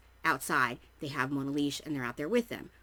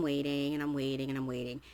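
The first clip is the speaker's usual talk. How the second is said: weary waiting; 3 semitones lower than usual. Retold or imitated. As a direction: let each repeat sag as the wait drags on. Acting out an endless wait.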